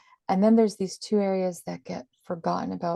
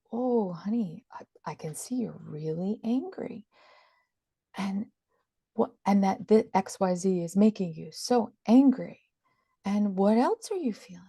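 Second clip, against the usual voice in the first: put-on calm an angry child tenderly; soothing mother.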